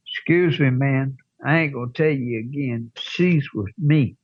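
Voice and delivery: retold bar threat, slowing on she's with me; stern warning. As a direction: lay down the last warning. Second warning, escalating.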